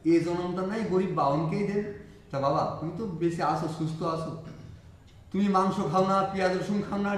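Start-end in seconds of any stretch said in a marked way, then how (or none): 0.0-1.9 slow, deliberate recitation of the line; repeated saying. Retold or imitated. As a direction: lay it down word by word for emphasis.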